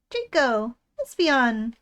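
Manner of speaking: loud, eager little creature shouting names; loud happy baby creature; excited baby calls. Acted. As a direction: shout the names like a thrilled toddler.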